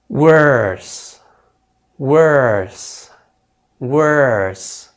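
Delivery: worse said with a drawn er vowel. Shown as a demonstration. Teacher drilling worse for the class. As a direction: say worse as wurss, er held long. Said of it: "Try it this way".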